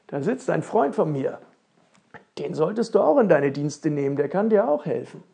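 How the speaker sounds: a touch of excited calling; eager exclamation. Acted. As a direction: urge it on the prince. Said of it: "rief Ellenlang plötzlich aus".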